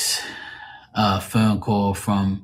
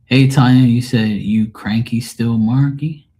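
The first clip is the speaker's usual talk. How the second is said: loud call-out; 3 semitones higher, 7 dB louder than usual. Real, not acted. Reading a chat message aloud.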